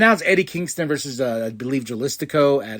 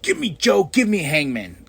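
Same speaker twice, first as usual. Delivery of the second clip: eager demand; 3 semitones higher than usual. Retold or imitated. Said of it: "I was like".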